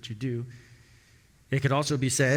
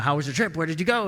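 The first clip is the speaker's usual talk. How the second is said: bright, higher eager questions; eager owner; 4 semitones higher, 6 dB louder, faster than usual. Acted. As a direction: ask the cat like a curious owner.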